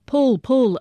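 urgent call. A narrator's reading. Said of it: "another urged".

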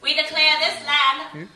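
high, loud herald's declaration; mock royal proclamation. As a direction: proclaim it like a pompous royal decree.

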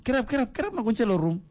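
very high, hammed-up command to get up; dad shooing the boy off to his room; mock shouted order. Father orders son to bed.

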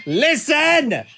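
copying the mum voice through a laugh; high laughing Listen; laughing mum voice imitation. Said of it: "That was my mum voice".

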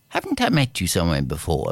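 put-on low, scornful old man; gruff old man. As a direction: tease him like a cranky old man. Old man scolds gardener.

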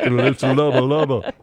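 lightly imitated Jamaican accent; a hint of mock Jamaican patter; a singer. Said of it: "then you turn into Shaggy".

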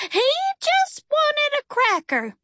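very high, slow, singsong character voice; serene revelation. A narrator's reading. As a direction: announce it like a message received in a trance. Dreamy woman announces bird's message.

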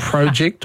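"project" first with long O, then short O; contrasting pronunciations of project. Shown as a demonstration. Host asking the linguist who's right, contrasting both pronunciations. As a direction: set PROH-ject against PROJ-ect for "project". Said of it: "who's right? Is it project or project".

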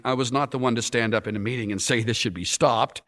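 mildly uneasy, hesitant admission; uncomfortable. Acted. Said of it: "Porter, uncomfortably".

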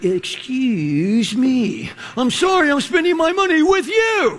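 sarcastic "excuse me" at a rude waiter; indignant customer. Retold or imitated. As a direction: play the affronted paying customer. Mocking a rude server exchange.

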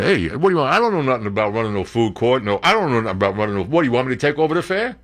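rapid-fire mock mobster; hammed-up wiseguy protesting the assignment; Goodfellas-style wiseguy. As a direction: play a baffled mobster handed an odd job. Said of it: "Goodfellas. You go down there".

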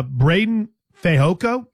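slow, deliberate name; careful and slow. Real, not acted. Host naming a player, careful to avoid trouble, very slowly. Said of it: "I said that very slowly".

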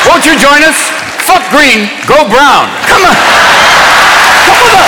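high coaxing call; beckoning ad voice. Acted. Comic ad spokesman beckoning viewers, squeaky and coaxing.

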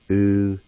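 "U-chi-la" said as oo-chee-lah, syllable by syllable; Cherokee syllables. Shown as a demonstration. Teacher giving the first part of the word, careful and clear. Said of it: "First part is pronounced like this".

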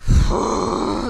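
long loud labor breath out; pregnancy breathing. Pretend. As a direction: breathe out through a contraction. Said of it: "Can you do some pregnancy breathing for us".

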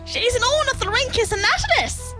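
very high, proud mother. Acted. Doreen presents her daughter's species, high and proud. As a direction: announce the scientific name proudly, high-pitched. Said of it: "said her mother Doreen proudly".

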